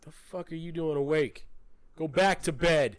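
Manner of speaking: put-on loud, exasperated order to a child; hammed-up angry father; mock scolding dad. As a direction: send the kid off, slowing on the last words. Dad scolding son up late.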